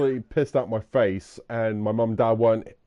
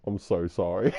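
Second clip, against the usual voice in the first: sheepish apology; 6 semitones lower, 6 dB quieter than usual. Retold or imitated. Hungover apology next morning.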